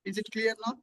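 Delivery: faint, far from the mic; quiet voice lost in the line; barely audible. Real, not acted. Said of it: "Your voice is very low".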